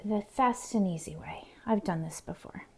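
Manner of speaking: whispered aside. Real, not acted. Telling viewers how she'll taste the jam, whispered. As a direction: breathe it out like a secret.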